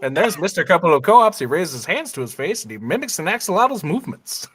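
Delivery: lightly voiced play-by-play announcer; baseball commentator. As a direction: call it like a ballgame announcer. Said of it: "I'll do baseball commentaries".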